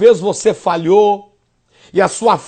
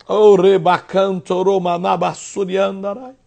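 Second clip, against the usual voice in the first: speaking in tongues. Acted. Speaking in tongues mid-sermon.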